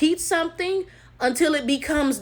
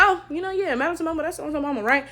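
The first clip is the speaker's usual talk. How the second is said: offhand, quick and quieter; nonchalant; 5 dB quieter, faster than usual. Retold or imitated. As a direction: toss it off like common knowledge.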